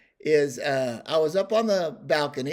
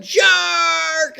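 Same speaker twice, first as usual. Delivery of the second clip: high, loud cry of alarm; yelling; 13 semitones higher, 9 dB louder than usual. Retold or imitated. Wife in the water crying a warning, yelling. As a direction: holler the warning in one long word. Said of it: "And she's yelling".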